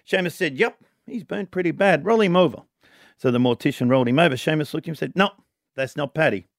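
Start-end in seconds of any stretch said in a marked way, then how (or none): 0.6-2.6 put-on Irish accent. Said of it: "trying to do the Irish accent only when someone speaks". 5.2-6.5 put-on Irish accent. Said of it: "trying to do the Irish accent only when someone speaks".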